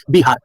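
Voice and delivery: "बिहार" with a B replacing the original V; local B pronunciation. Shown as a demonstration. Teacher showing how locals changed the name, B pronunciation. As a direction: say "बिहार" starting on a firm B. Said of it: "हम लोग pronunciation कर करके".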